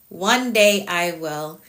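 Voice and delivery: slow, deliberate "One day I will"; slow firm promise. Shown as a demonstration. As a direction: spell it out slowly like a vow. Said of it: "You're laughing at me".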